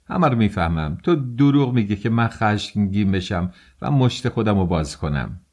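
understated acted angry cry; shouting. Young man telling investigator he sees through him, mild shout. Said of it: "راسکولنیکوف فریاد زد".

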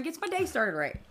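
slipping into a Southern twang; southern accent. Real, not acted. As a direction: say it with a Southern lilt. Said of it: "she went all southern on that".

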